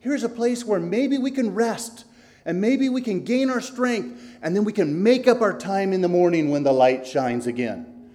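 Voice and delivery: Christian pointing out a shelter to Hopeful; relieved Christian. Acted. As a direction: sound relieved to find shelter. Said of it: "And Christian said to Hopeful".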